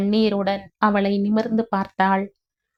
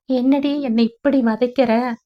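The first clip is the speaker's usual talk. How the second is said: pained plea; 4 semitones higher than usual. Acted. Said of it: "என கண்களில் வலியுடன் அவள் வினவ".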